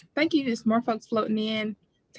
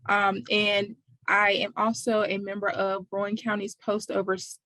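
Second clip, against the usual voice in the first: cotton mouth. Real, not acted. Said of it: "cotton in my mouth this morning".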